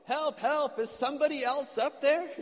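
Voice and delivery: high, loud comic yell; yelling for help. Acted. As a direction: holler up the cliff for anybody else, pitch way up. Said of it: "finally Jack yells".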